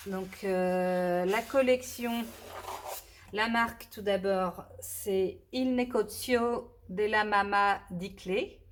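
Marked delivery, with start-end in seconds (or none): 5.5-8.6 attempted Italian accent. Shown as a demonstration. Crafter presenting an Italian paper brand, unsure Italian accent. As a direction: try the Italian name with a hesitant Italian accent. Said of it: "pas du tout sûre de mon, euh, accent évidemment italien".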